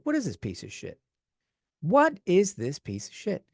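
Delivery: a hint of a movie mobster; half-hearted mobster impression at a bad movie; Joe Pesci. Reviewer mocks a bad horror film, lightly voiced mobster. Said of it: "I feel like Joe Pesci in Tales from the Crypt".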